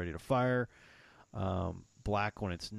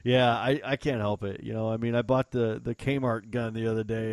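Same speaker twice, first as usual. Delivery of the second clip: ordinary talk, nothing marked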